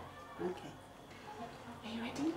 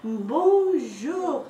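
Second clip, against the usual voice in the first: louder cheery little thumb popping out; playful thumb character; 3 dB louder, much slower than usual. Pretend. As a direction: pop out and greet like a tiny hero.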